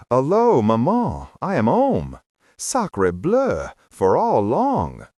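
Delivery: loud, hammed-up French accent; mock French accent. Exile home on a visit greeting maman, mock French accent. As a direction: call out in a comic French accent.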